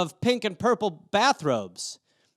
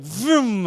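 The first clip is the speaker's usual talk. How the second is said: imitated vroom; 4 semitones higher, 3 dB louder than usual. Imitates cat buzzing past like plane.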